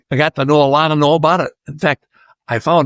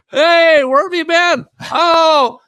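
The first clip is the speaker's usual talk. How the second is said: excited greeting; slower than usual. Retold or imitated. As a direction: greet an old friend noisily, pitched way up. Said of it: "He said, yelling my name".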